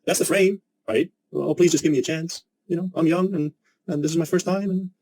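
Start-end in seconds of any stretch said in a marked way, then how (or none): 1.3-4.7 higher, whiny groveling plea; "please" stretched into a hammed-up beg; mock begging. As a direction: grovel for the job like a nervous beginner. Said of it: "A professional doesn't plead".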